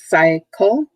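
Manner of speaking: "cycle" in two syllables, CY stressed; teacher's syllable demo of "cycle", emphasis on CY; stress on first syllable. Shown as a demonstration. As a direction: sound out "cycle" syllable by syllable, rising at the end. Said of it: "emphasis is on the first syllable".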